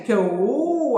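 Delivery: mild mock shriek of pain; a half-hearted yelp when pinched. A narrator's reading. Lakshmi pinched on the arm, mild mock shriek. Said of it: "అని గట్టిగా అరిచి".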